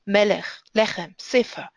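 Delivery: "melech, lechem, sefer" each stressed on the first syllable. Shown as a demonstration. Teacher showing segulata exceptions, stressed at the beginning. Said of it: "except when it's a segulata".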